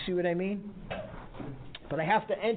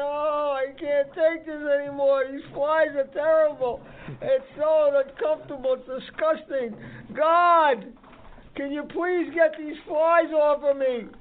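a touch of a higher, whiny complaining cow voice; whining cow; 5 semitones higher than usual. Acted. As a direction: lightly play the miserable cow. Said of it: "she was just whining and saying".

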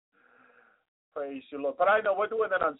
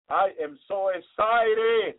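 emphatic excitement; much slower than usual. Real, not acted. Preacher telling congregation his joy, slow and emphatic. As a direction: stretch every word with joy. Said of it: "I'm so excited".

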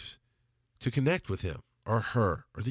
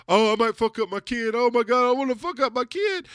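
high-pitched fretting voice; mock fearful panic; 13 semitones higher, 4 dB louder than usual. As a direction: imitate your own panicky inner voice. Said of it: "Fear kept me in the mindset of".

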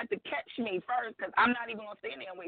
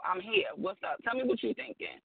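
imitating caring husband; 4 dB quieter than usual. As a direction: play the gentle man coaxing her. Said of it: "But I want you to be like".

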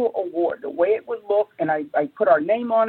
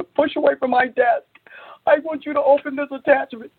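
excited; 7 semitones higher than usual. Retold or imitated. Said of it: "I'm so excited".

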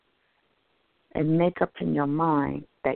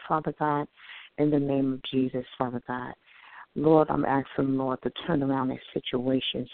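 quick prayer; 3 semitones lower than usual. Real, not acted. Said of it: "I just wanted to say a quick prayer".

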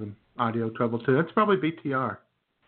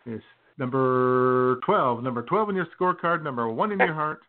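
announcer intro; 3 semitones higher than usual. Acted. Introducing a guest grandly.

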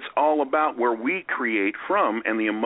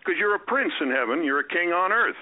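bold proclamation; 7 semitones higher than usual. Acted. Bold quote of scripture.

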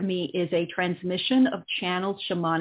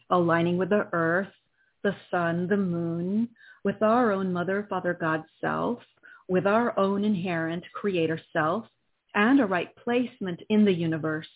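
solemn invocation. Acted. Invocation in healing session.

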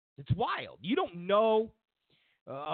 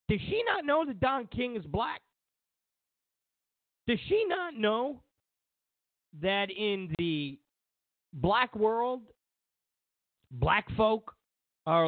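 much higher, disbelieving rhetorical question; incredulous; 9 semitones higher than usual. Real, not acted. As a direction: ask it as if it's unbelievable. Mocking disbelief at Ana Navarro.

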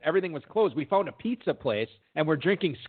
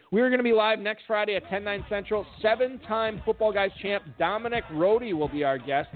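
radio host outro; 2 semitones higher than usual. Acted. Host signing off the podcast, upbeat announcer read. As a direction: plug the show to the listeners.

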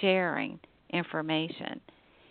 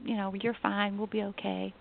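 reassuring mom; 2 semitones higher, 5 dB quieter than usual. Retold or imitated. Mother reassures scared daughter.

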